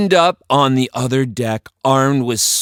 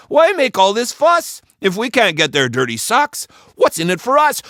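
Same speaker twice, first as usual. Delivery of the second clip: complaining pirate; 11 semitones higher, 4 dB louder, faster than usual. A narrator's reading.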